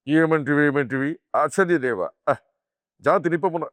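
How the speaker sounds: a hint of grand theatrical hero delivery; NT Rama Rao dialogue. Mimics doing the famous film hero's dialogue, lightly. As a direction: declaim it like a mythological film hero. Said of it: "NT రామారావు గారి dialogue చెప్పాలంటే".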